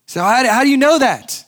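sudden high, loud burst of disbelief; astonished. Acted. Shasta to Aslan, stunned and disbelieving, high and loud. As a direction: jump up in pitch, stunned.

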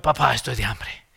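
a soft, lightly voiced little boy; child voice. Son asking his dad for food, lightly voiced child. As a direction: ask like a hungry child.

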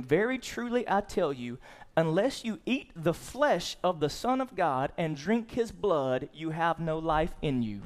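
measured, slowed Bible reading; scripture reading. Acted. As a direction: read the verse out deliberately. Reads scripture verse aloud.

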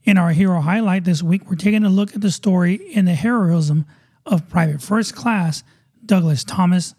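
upbeat radio host intro read; show announcer. Acted.

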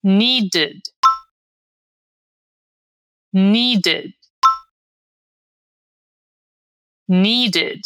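"Needed" for repeating, NEE-ded with falling end; model pronunciation. Shown as a demonstration. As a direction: say each "Needed" carefully, second syllable unstressed. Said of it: "Vamos repetir?". ("Needed" articulado para o aluno repetir, "ed" fraco)

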